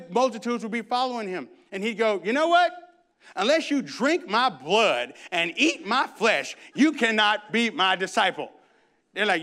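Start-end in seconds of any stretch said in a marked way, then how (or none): 2.2-8.5 Jesus voiced.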